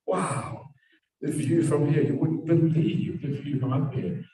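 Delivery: awed wonder. Acted. Friend calls from the hilltop about the view, awed. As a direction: marvel at it, drawing the words out high.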